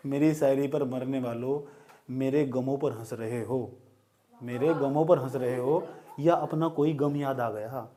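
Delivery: slow, drawn-out shayari delivery; poetry recital. Acted. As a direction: recite each line like a mushaira couplet. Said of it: "शायरी सुनाऊँ आज फिर?". (धीमे अंदाज़ में शायरी)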